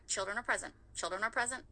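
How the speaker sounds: put-on saying children are present softly to herself; calm yourself with a quiet repeated reminder; muttered mantra. Shown as a demonstration. Mom restraining her anger, repeating it quietly to herself. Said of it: "that's all I have to tell my".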